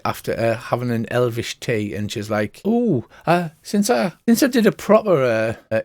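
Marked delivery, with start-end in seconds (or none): 2.6-5.8 cheeky seer. Acted. Seer cheekily asking the party about raising prices, perky. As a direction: brighten up and chance it.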